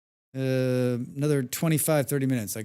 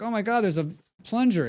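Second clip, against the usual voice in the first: high, loud burst of delight; excited gasp; 9 semitones higher, 5 dB louder than usual. Retold or imitated. Streamer discovering a plunger in the game, loud excited delight. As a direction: blurt it out like you just found treasure.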